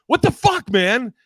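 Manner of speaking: high, loud mock outrage at the heckler. Comic yelling at heckler in a high, loud mock outrage. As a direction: squeal it out like an offended comic who lost it. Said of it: "she goes".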